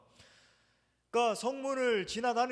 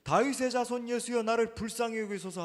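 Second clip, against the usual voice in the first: loud desperate plea; crying out; 4 semitones higher, 4 dB louder than usual. Retold or imitated. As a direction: cry out for mercy loudly. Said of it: "소리를 질러 이르되". (큰 소리로 부르짖는 외침)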